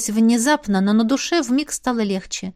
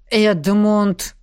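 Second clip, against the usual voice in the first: a sharp, louder hissed rebuke; hissed name; 4 dB louder than usual. Acted. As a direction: hiss his name in reproach. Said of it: "прошипела наставница".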